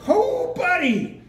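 laughing exclamation. Real, not acted. Preacher laughs at a point.

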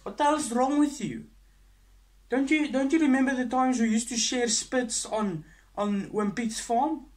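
high, loud and slowed; indignant rant. Acted. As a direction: wail at him in outrage.

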